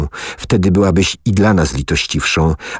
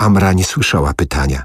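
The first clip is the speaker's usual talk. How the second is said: ordinary delivery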